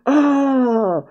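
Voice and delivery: sudden high startled cry; startled gasp. Real, not acted. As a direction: caught off guard by Blackbeard. Blackbeard shows up.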